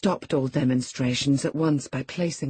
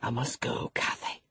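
tender farewell; 3 semitones lower, 6 dB quieter than usual. Acted. Lover gently takes his leave.

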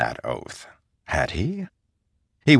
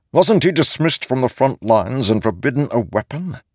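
raised-pitch, doubting challenge; skeptical; 8 semitones higher, 3 dB louder than usual. A narrator's reading. Ishar questioning a dismissed soldier's fitness, skeptical. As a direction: query his fitness in a high, disbelieving voice.

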